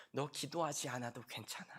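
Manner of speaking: whispered tempting devil; hushed tempter; devil whispering. Acted. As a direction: whisper the lie in their ear. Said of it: "마귀가요 ... 이렇게 얘기해요".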